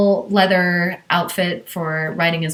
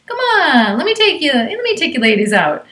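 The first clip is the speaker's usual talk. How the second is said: pushy stranger; 8 semitones higher, 4 dB louder than usual. Retold or imitated. Creepy stranger pleading outside cabin.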